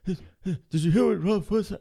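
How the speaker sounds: mock the busybodies lightly; gossiping locals. Comic mocking gossipy locals, nosy whisper-ish gossip. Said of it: "everybody's like".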